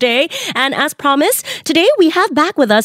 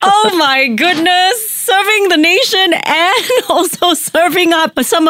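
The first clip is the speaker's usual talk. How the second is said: giggling in disbelief; laughing, high; 7 semitones higher, slower than usual. Real, not acted. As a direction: laugh through it, pitched up. Laughs at the jungle interview.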